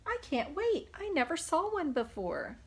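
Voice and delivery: bubbling over with excitement; excited. Acted. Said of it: "says Pete".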